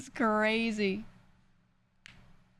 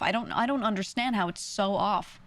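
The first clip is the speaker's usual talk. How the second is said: usual speaking voice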